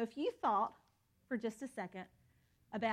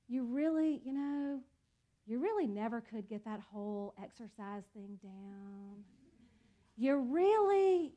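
disappointed. Pretend. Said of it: "it's more disappointed".

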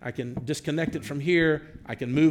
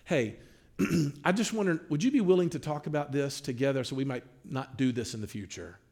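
gentle request. Retold or imitated. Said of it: "we make a request for change".

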